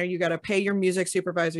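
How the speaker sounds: ordinary delivery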